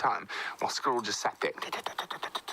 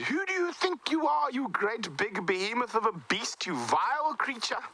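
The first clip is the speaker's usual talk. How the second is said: much higher, sharp indignant scold; squirrel scolding; 12 semitones higher than usual. Acted. The tiny squirrel scolding the elephant, high and indignant. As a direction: tell off the big beast from far below. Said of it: "scolding elephant".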